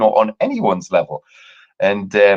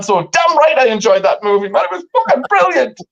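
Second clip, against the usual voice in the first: ironic; 13 semitones higher, 3 dB louder than usual. Real, not acted. Sarcastic payoff.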